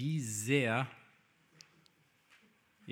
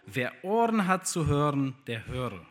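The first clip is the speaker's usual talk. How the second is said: called out; 5 dB louder than usual. Acted. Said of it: "rief er".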